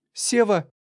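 very high feminine cry of alarm; high, shocked exclamation; startled gasp. A narrator's reading. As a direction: gasp out the husband's name. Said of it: "ахнула позади жена".

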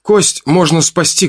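trying to sound sure. Acted. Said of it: "ответил я, стараясь говорить уверенно".

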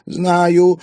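high, loud shout back. A narrator's reading. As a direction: yell it back across the room. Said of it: "крикнула". (выкрикивая)

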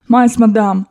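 lightly twittering protest; chirping Frenchman. Acted. Frenchman coaxing the old lady, chirping. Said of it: "защебетал Дегрие".

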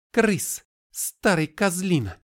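shouted high and loud, slowing down. A narrator's reading. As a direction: yell a joyful greeting. Kari greets the ghoul.

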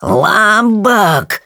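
high, strained gasp of a name; squeezed out in fear. Acted. Timmins turns pale with fear, high choked-out exclamation. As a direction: force the name out, aghast. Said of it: "выдавил он".

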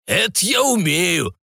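put-on slow, high, pleased old man; brightened old man, slow; cheered-up old man. A narrator's reading. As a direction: savor it like a cheerful old drinker. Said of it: "повеселел старик".

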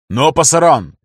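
громогласный лозунг. Acted. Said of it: "громогласно проскандировал".

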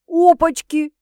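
loud, high teasing "whoa"; impressed whistle-word. A narrator's reading. Sister reacting to the juicy news, excited. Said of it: "присвистнула сестра".

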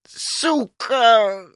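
very high, pained squeak; giant's pitiful high squeal; plaintive squeak. A narrator's reading. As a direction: squeal it pitifully after the kick. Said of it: "жалобно пропищал".

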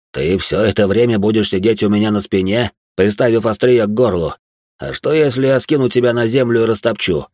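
scornful, mocking question; ironic contempt. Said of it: "с презрительным смешком иронично поинтересовался".

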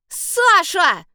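put-on boy's high, loud call across the field; shouted call. A narrator's reading. Boy calling out to Sasha, loud shout. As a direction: yell her name from a distance. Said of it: "закричал".

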